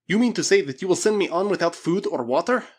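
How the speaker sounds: high, loud, incredulous demand; indignant demand. A narrator's reading. Russian challenges being sent on without food, indignant demand. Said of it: "demanded the Russian".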